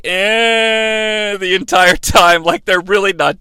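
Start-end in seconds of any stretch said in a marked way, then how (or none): 0.0-1.4 long, droning "eh"; mock unimpressed groan; indifferent crowd noise. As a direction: drone like a crowd not digging it. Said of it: "the crowd is like".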